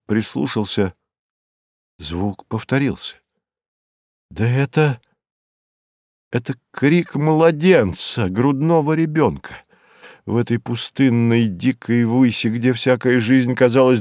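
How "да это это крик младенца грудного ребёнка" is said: higher-pitched, amazed discovery; dawning amazement at what you hear; astonished realisation. A narrator's reading. Lone wanderer recognising a baby's cry, astonished. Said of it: "Изумление моё".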